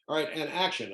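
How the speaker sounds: lightly voiced director calling action; director's call. Film director calling action to his actor, director voice. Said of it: "he becomes the director".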